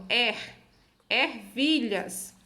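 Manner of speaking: "er" alone, then ervilhas slowly stretched; er, ervilhas, sounded out slowly for learners; syllable-final R. Shown as a demonstration. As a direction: isolate er, then draw out ervilhas. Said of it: "No final de sílabas, olhe".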